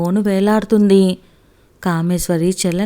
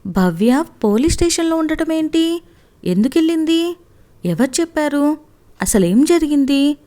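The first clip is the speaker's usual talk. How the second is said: higher, rapid stunned questions; bewildered questions; 8 semitones higher than usual. A narrator's reading. Wife hears the girl is at the police station, stunned. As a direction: fire off questions in disbelief. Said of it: "ఒక్క క్షణం అయోమయంగా చూసింది".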